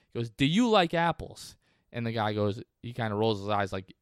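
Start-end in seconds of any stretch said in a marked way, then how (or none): 0.3-1.6 put-on higher, pushier Boston accent repeat; needling Boston accent movie quote. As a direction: press the question again in a Boston accent. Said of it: "my Boston accent is a little bit better".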